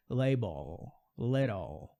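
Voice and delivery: label and little ending on a real L, not an U; proper final L. Shown as a demonstration. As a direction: hold the tongue on the L at the end. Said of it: "não é esse som".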